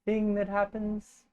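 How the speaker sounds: lightly voiced Scandinavian accent; toned-down Swedish accent. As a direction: keep the mock-Swedish at half strength. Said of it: "Now turn it down to, like, one half".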